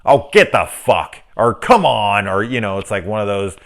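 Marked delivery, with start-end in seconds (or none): 0.0-2.3 imagined crowd heckling. Retold or imitated. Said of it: "people out loud".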